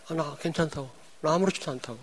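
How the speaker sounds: softly brushing it off, a light retelling; quiet retold reply. Pastor retelling to the congregation his quiet reassurance to friends, softly. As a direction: murmur that you're fine, half to yourself. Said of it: "내가 그랬어요".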